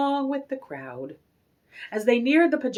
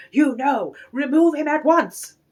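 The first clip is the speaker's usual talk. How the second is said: angry order; 5 semitones higher, 6 dB louder than usual. A narrator's reading. Angry manager orders removal.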